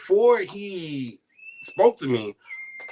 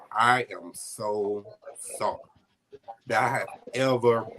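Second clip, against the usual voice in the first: choked up; 4 semitones lower than usual. Real, not acted. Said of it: "it always chokes me up".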